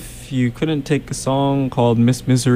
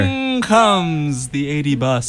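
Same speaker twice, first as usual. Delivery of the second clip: speaking up; slower than usual. Pretend. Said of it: "You really gotta speak up".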